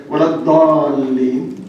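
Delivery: Lebanese recitation accent, long-drawn DALLIN; slow Lebanese-accented recitation of "Dallin". Shown as a demonstration. Preacher shows listeners how Lebanese recite it, Lebanese accent. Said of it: "if you go to Lebanon, they are going to say".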